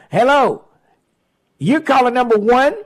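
bright, loud radio host greeting; radio contest promo. Real, not acted. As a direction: pump up each caller like a DJ. Radio call-in contest countdown.

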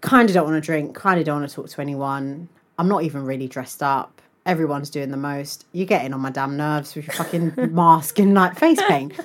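low, soft, fed-up recital; unenthused inner monologue. Retold or imitated. Host recalls standing at the party, fed up. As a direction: reel off grievances under your breath. Retold reluctant thoughts at a party.

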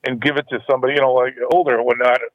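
phone line sound; over the phone. Real, not acted. Thanks for calling in.

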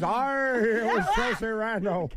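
a light, high Irish lilt, slow; Irish accent. Retold or imitated. Host imitating the injured player, in a light Irish accent. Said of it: "That sounded Irish, mate".

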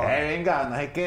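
put-on narco Colombian accent. A Colombian guest mocks the narco accent foreigners expect, in a light Colombian narco accent. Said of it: "como los narcos".

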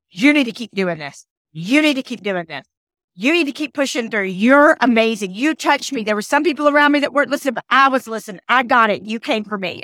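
impassioned but hushed-down quote, urging someone on; passion and emotion. Retold or imitated. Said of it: "the passion and emotion exactly that she had".

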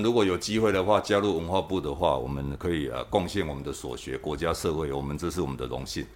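hushed tongue-in-cheek government loyalty speech; mock official pledge. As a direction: recite it like a humble official applying for a post. Mock civil-servant pledge, joking.

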